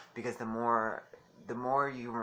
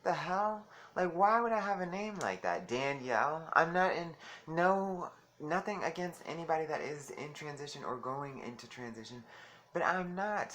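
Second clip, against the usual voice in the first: higher, indignant disbelief; incredulous retort; 6 semitones higher than usual. Retold or imitated. Retelling his reply to inmates, higher and indignant. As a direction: bristle at the suggested name, higher. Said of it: "And I'm like".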